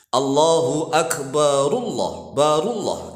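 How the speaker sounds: "Akbarullah" sung as one joined word; slow chanted "Akbarullah"; linked reading. Shown as a demonstration. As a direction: say "barullah" with the r flowing into Allah. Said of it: "Jadi barullah".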